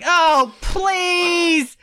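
mock exasperated groan; eye-roll. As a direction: scoff at his charm. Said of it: "I'm like".

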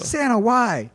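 high, drawn-out plaintive wail; hammed-up pleading; mock anguish. Victim begs Santa for a reason, mock-anguished wail.

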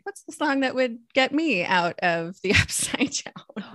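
hushed laughing whisper. Retold or imitated. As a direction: whisper it with a giggle. Playful quoted thought to herself.

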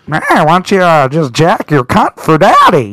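lightly voiced old-film star impression; a hint of a drawling actor's voice, slowing at the end; Jimmy Stewart. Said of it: "character I came up with called Jimmy Stewart".

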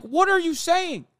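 high and slow, incredulous; baffled. Retold or imitated. Reacting to the candidate, slow and incredulous. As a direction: drag out the question in disbelief. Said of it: "I'm like".

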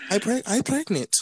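put-on high Dominican accent, broken English. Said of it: "I don't wanna do the Dominican accent".

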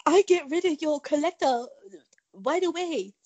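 mock Asian accent; playful caricatured Asian accent; Asian broken-English accent. Shown as a demonstration. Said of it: "I can do the Asian broken English accent".

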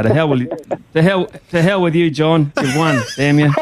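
laughing through a playful curse; mock curse. Real, not acted. Co-host laughingly curses the caller who beat him, mock outrage. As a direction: pretend to be sore about losing, laughing.

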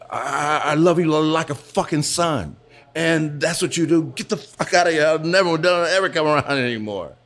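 high, tearful retold tirade; imitating tearful outburst. Crying boss disowning the dancer he loved like a son, imitated tearful fury. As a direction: act out a crying man throwing someone out. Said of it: "and he was crying".

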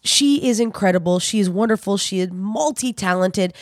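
warm podcast intro over music; announcer read. Acted. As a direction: introduce the guest like a host.

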